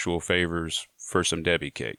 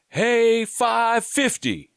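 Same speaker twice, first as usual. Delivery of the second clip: high, slow, loud holler at full voice. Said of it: "holler out of his cell at the top of his voice".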